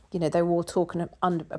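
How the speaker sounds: usual speaking voice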